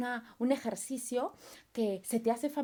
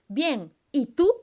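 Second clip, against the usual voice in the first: chat reply; 3 semitones higher, 10 dB louder, much slower than usual. Retold or imitated. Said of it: "Y tú me respondes".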